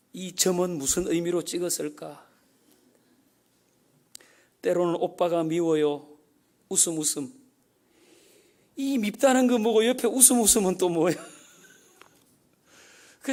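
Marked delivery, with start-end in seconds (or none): 0.1-11.1 pondering lover. Pretend. Lover poring over a letter, curious and puzzled. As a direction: wonder aloud what every dot means. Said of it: "연애 편지 그렇게 읽지 않습니까".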